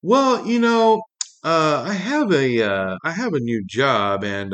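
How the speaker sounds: high, slow put-on sales voice for the opening; mocking the friend's slow, high sales opener; mock salesman pitch. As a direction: ham up a fake-friendly pitch, drawing out the well. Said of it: "this person goes on to say".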